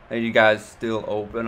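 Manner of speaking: put-on slow, slurred drunk customer asking to come in; drunk woman. Drunk woman at the liquor store door, slow and slurred. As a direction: drag the words like you've had too many. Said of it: "this woman comes stumbling in, stuttering her words".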